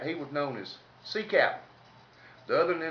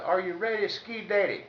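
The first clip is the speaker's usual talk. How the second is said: mock holler; 5 semitones higher than usual. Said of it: "he hollers back there".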